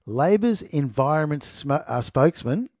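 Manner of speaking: slow, deliberate repeat; measured, careful read-out of the title; said slowly. Shown as a demonstration. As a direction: spell it out word by word for the listeners. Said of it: "I'll say it slowly".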